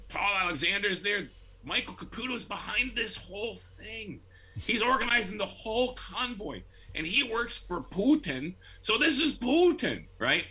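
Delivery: high, hammed-up paranoid ranting, rising to a shout; mocking Twitter conspiracy voice. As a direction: mimic the crazy online posters, pitch climbing.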